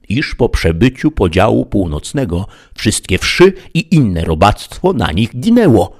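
lightly voiced lofty knight lecturing; Don Kichot, learned knight. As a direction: explain like a proud scholar to his squire. Don Kichot teaches Sancho.

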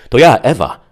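high, loud singsong answer; a grown woman sounding sweet; melodious voice. A narrator's reading. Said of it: "melodyjnym głosem". (melodyjnym, śpiewnym głosem)

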